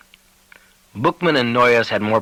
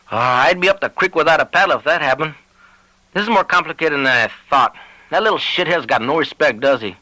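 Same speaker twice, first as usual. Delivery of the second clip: higher, put-on rancher voice; uneasy Lavadier; 5 semitones higher than usual. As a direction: grumble through worry.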